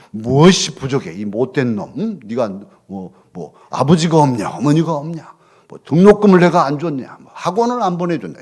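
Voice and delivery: loud, indignant parental rant; angry scolding. Acted. Parent yelling at a struggling teen, loud angry rant. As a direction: berate the child like an exasperated parent.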